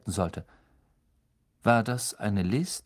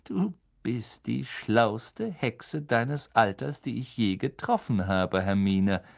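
pained. Acted. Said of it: "Lupin lachte gequält".

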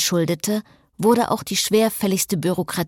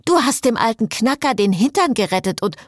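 angry; 5 semitones higher, 3 dB louder than usual. Acted. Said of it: "Augen blitzten hingegen angriffslustig".

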